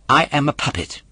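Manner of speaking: a hint of an indignant wooden boy; puppet voice. A narrator's reading. Puppet corrects the polecat, a touch indignant.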